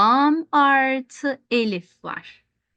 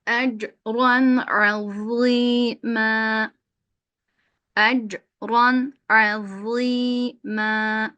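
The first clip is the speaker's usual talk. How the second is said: slow drawn-out chanted recitation; Quran recitation; much slower than usual. Shown as a demonstration. Teacher reciting the verse for students. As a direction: chant each vowel long and even. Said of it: "teacher recites Quran verse".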